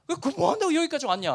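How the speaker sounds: high, heated repeat in standard Korean. Retold or imitated. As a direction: say it again without the Busan dialect. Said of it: "부산 사투리를 많이 씁니다". (표준어로 다시 흥분해서)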